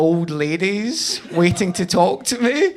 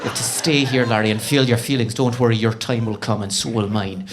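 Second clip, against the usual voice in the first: put-on Northern Irish accent; 5 semitones lower than usual. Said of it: "not a great Northern Irish accent".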